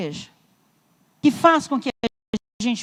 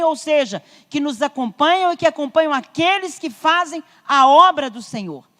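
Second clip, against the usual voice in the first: raised, insistent sermon delivery; emphatic preaching; 3 semitones higher than usual. Real, not acted. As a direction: preach the promise with growing force. Preaches with rising force.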